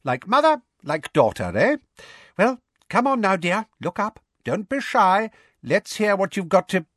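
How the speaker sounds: high, jovial coaxing; jolly old official coaxing a shy girl; hearty, pitched well up; Fudge, hearty. A narrator's reading. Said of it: "said Fudge heartily".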